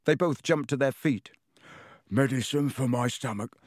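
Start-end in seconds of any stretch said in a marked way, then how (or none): 2.1-3.5 gruff grunting voice; grunted. Acted. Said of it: "Ron grunted".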